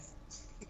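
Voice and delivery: short, soft voiceless chuckle; chuckling. Real, not acted. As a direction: chuckle softly on the breath. Laughing after own remark.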